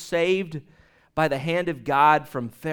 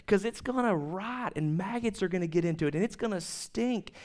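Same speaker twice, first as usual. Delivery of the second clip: God warning; 3 semitones higher than usual. Retold or imitated. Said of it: "he was telling them".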